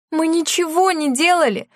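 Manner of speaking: high, pleading protest against father; a daughter insisting she did nothing. A narrator's reading. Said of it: "протестовала Лена".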